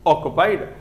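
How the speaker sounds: slow dictation. Shown as a demonstration. Teacher repeating the definition slowly for students writing. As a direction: repeat it slowly so they catch it. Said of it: "teacher repeating dictation".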